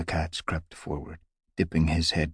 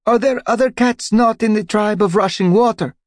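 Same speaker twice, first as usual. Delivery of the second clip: much higher, louder squeaky cat; high small cat voice; 11 dB louder than usual. Acted. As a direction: pipe up from the back, high. Voice from the back.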